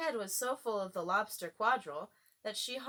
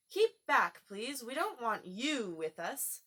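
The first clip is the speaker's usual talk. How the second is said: loud; 4 semitones higher, 4 dB louder, slower than usual. Acted. Alice voicing porpoise warning.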